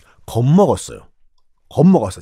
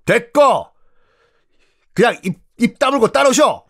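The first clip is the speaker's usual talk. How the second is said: higher, sharp order to shut up and follow; curt dismissal; 8 semitones higher than usual. Acted. General silencing the late leader.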